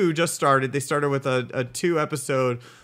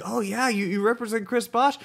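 sceptical challenge; 7 semitones higher than usual. Acted. Acted sceptical reply to claim.

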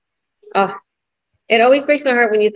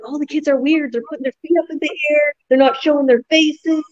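put-on kids whining; 7 semitones higher than usual. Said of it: "they're like".

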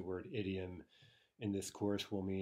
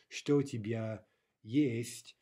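slow model question; 2 semitones higher, 7 dB louder, slower than usual. Shown as a demonstration. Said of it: "if we include the есть".

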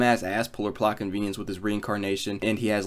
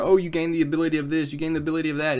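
mock game narrator; 5 semitones higher, faster than usual. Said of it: "like, narrator".

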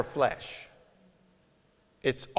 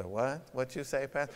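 mock shocked; 2 semitones lower, 12 dB quieter than usual. Imitating shocked congregant.

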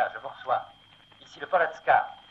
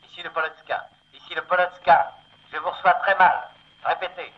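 radio voice; 9 semitones higher than usual. Acted. Ship over bad radio.

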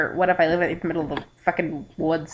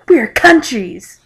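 louder, slow mock Russian accent; higher, drawn-out put-on Russian voice; 4 semitones higher, 7 dB louder, slower than usual. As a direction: declare it in a hammy Russian accent. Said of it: "I do an awesome Russian accent".

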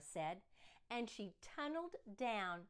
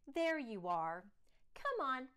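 welcoming principal; 5 dB louder than usual. Acted.

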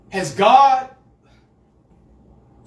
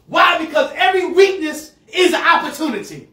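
louder, laughing proclamation; preaching shout; 5 semitones higher, 5 dB louder than usual. Real, not acted. Pastor proclaiming hope to the congregation. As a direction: ring it out with joy.

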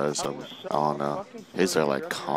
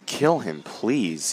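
higher, louder begging shout; higher and louder call for help; pleading yell; 4 semitones higher, 3 dB louder, much slower than usual. Real, not acted. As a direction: urge a teammate, desperate. Begging teammate mid-game.

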